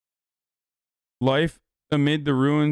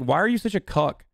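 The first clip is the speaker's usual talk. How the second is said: raised-pitch exasperated scolding of a clueless father; mock rant at dad; 3 semitones higher than usual. Son berating his dad over unions, mock angry. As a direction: tear into your dad like a fed-up kid, half joking. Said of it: "be like".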